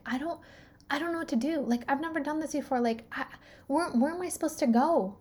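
lost and overwhelmed, voice lifted; retold helplessness. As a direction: re-enact not knowing what to do. Retells her helpless panic to healer.

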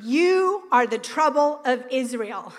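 slow, weighty accusing voice of Ahab; accusing king. Retold or imitated. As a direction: Ahab pointing the finger, slow and heavy. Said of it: "he said to Elijah".

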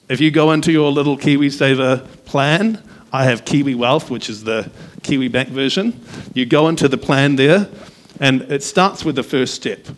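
muffled through a face mask; talking through a mask. Real, not acted. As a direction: speak from behind a mask. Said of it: "let me take this mask off actually".

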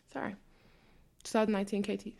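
ordinary delivery

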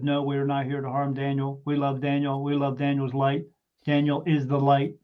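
level, evenly measured spirit-box voice; computer voice. Retold or imitated. Spirit box answering the investigators' question, mildly robotic monotone. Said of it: "that voice came through and said".

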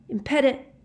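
high cry, broken off; yelled spell. A narrator's reading. Harry jinxing Snape before pain hits, yelled. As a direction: begin the jinx high and urgent. Harry casting jinx, cut short.

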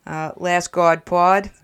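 slow, loud Boston accent; Boston accent, said slowly. Shown as a demonstration. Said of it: "I'm gonna use now my Boston accent".

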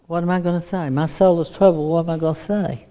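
understated, burdened self-questioning; a touch of inner turmoil; troubled. Acted. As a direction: ask it softly, as if weighed down. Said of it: "he's troubled".

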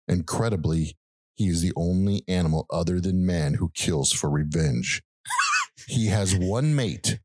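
slow, dramatic trailer narration; movie trailer voice. Shown as a demonstration. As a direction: read it like an epic movie trailer. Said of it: "The tagline for the movie. Ready?".

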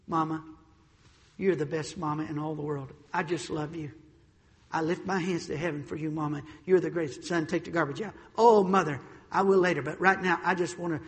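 soft, syrupy mock praise to mama; butter up mama softly to dodge the chore; mock flattery. Preacher mocking a son flattering his mother, soft and sugary.

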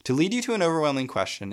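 high, fast declaimed line. Shown as a demonstration. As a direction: fling the line out high and quick. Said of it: "quite a bold heritage".

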